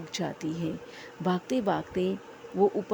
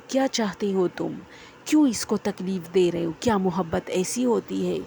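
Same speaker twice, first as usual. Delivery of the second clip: a mild acted yell, a bit louder; shouting; 4 dB louder than usual. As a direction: cry out the questions in desperation. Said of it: "وہ چیختا چلاتا ہے". (ہلکی سی چیخ کر پوچھنا)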